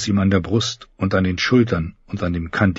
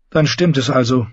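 understated dejection in a higher character voice; raised voice for the character, a touch downcast; dejected; 5 semitones higher than usual. Acted. Brienne accepting the news of the Hound's death, mildly dejected. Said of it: "meinte sie niedergeschlagen".

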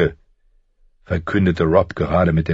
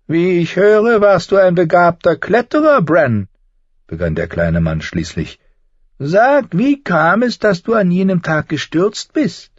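higher, sly and needling; a higher, sardonic little man's voice; mocking dwarf Tyrion; 12 semitones higher, 4 dB louder than usual. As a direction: talk down to a would-be lord with cool mockery.

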